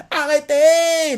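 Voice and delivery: high, drawn-out slow plea; desperate cry. Retold or imitated. Bonnie begging the men to stop beating her father. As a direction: stretch it out, begging them to stop. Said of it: "Et crie ça comme ça".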